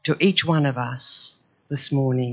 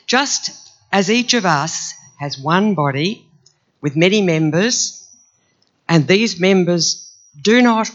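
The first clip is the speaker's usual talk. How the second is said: scripture reading. Acted. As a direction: proclaim each line to the church. Reads scripture to congregation.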